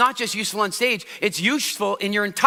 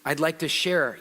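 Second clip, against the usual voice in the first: smooth auditory voice; 5 semitones lower, 4 dB quieter than usual. Shown as a demonstration. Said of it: "They use words like sound".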